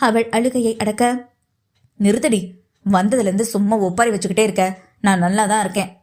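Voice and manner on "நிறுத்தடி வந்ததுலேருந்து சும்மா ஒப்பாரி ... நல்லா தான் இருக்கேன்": low, gruffly impatient man; mild scolding shout. Acted. Patient to his weeping sweetheart, scolding to stop her tears. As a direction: cut her wailing short with a mild telling-off. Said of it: "கத்தி".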